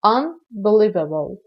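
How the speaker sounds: "unbelievable" slow and carefully separated; slow teacher's enunciation of "unbelievable"; pronunciation demo. Shown as a demonstration. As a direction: model the word "unbelievable" slowly for learners. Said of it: "اکثریت تو تلفظ این کلمه مشکل دارن".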